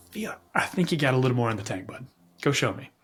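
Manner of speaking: gentle whispered coaxing; encouraging coach whisper. Retold or imitated. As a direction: whisper belief into a tired runner. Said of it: "all you can hear is this encouraging voice".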